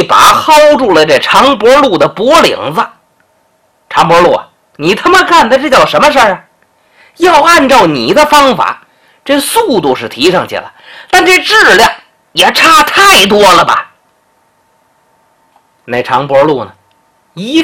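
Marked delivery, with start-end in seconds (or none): 3.9-13.9 mildly furious shopkeeper. Acted. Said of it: "气急败坏".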